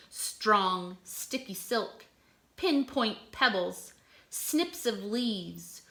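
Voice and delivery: measured poem reading, lingering on lists; reading a poem to children. Acted. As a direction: savour each item. Reads caddis poem aloud.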